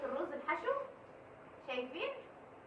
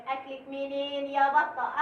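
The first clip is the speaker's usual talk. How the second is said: drawn-out playful call; 7 dB louder, slower than usual. Acted. Teasing the food, drawn out.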